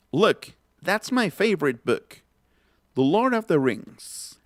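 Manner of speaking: slow and even, each word clear; slow model phrase. Shown as a demonstration. Teacher repeats a phrase slowly for students. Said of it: "Otra vez".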